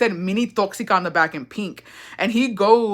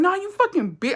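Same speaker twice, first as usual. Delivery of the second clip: retold anger; 11 semitones higher than usual. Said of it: "I was so mad".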